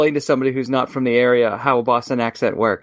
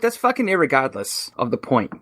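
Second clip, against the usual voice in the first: put-on Boston accent. Dismissing the other haggler's point, mock Boston accent. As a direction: argue like a Boston local. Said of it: "so good in a Boston accent".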